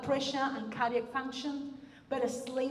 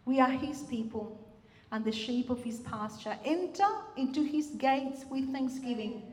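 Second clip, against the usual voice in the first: scripture reading. Acted. Pastor reading a psalm to the congregation, measured. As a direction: read it like a congregation hears scripture.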